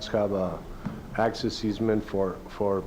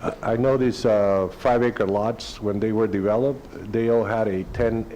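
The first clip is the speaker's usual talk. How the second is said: louder, straight into the microphone; speaking up; 4 dB louder than usual. Real, not acted. Resident repeating a question after being told to use the mic, speaking up. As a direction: raise the volume a little for the mic. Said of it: "Please speak into the micro".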